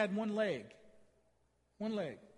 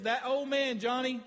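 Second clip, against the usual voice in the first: emphatic call; 4 semitones higher, 5 dB louder, slower than usual. Retold or imitated. Declaring to an inmate at his baptism.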